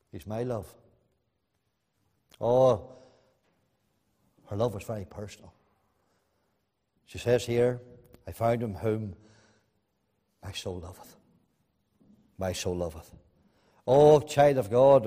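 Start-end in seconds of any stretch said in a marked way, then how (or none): 0.1-0.7 much softer and lower, tender; hushed echo. Acted. Soft echo after the quote. 8.3-13.1 soft and low, fading away; hushed reading. Acted. Intimate quiet reading of verse.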